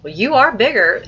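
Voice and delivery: high, loud, lively mom's reply; in character. Shown as a demonstration. Teacher shows a fluent reader voicing mom, in character. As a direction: act it out with "are" lifted. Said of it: "if you really wanna be in character".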